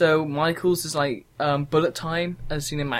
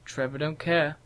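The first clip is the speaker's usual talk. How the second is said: mock sassy catchphrase; 4 dB quieter than usual. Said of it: "another Honey Boo Boo thing".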